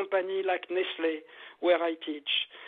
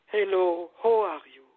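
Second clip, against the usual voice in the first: heartfelt greeting; 4 dB louder than usual. Shown as a demonstration. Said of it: "Really from my heart".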